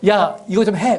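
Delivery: loud, bossy command; curt order. Shown as a demonstration. A parent ordering a child to do a chore, bossily. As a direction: toss it off as an order. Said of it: "그거보다도".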